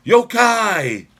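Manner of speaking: high, loud ghostly wail; spooky call. Acted. Calling out spooky ghost word.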